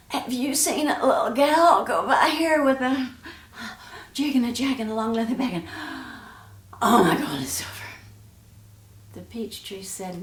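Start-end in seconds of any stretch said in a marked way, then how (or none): 0.1-7.7 out of breath. Acted. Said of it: "She was getting out of breath".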